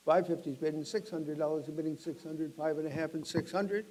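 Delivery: brisk auctioneer calling out bids. Acted. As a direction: rattle off the bids to the room.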